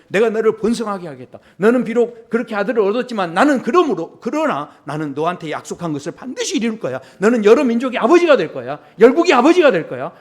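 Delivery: lightly voiced God, building in force; God's promise. Acts out God's promise to Abraham.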